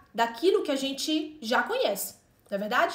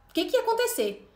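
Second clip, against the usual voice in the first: desespero imitado. Retold or imitated. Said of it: "dá um desespero".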